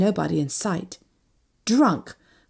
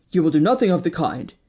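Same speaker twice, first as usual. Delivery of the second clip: curt, put-on man's voice; defiant refusal; 3 semitones lower than usual. A narrator's reading. Wounded man refuses her help, defiantly. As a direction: fling the words in her face. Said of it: "He flung the words in my face".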